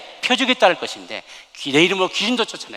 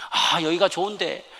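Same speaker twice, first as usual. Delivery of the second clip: drawn-out, slow mock plea; imitated childlike protest; protesting child; 3 semitones higher, slower than usual. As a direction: voice a reluctant boy begging to stay. Boy protesting return from heaven.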